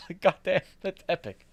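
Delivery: high, awed and laughing; excited. Retold or imitated. Amazed at the memory.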